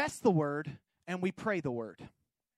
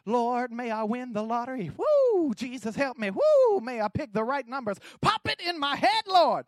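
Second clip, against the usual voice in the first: mock lottery prayer; 3 semitones higher, 5 dB louder than usual. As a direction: play a believer begging God for lottery numbers. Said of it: "we're praying something that we have no idea".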